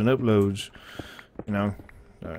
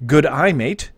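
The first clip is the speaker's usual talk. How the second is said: a slightly louder "Good eye, mate", still Australian accent; attempted non-Australian; 3 semitones higher, 4 dB louder, slower than usual. Shown as a demonstration. Streamer attempting good eye mate without an Australian accent on request. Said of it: "Try to say without sounding Australian".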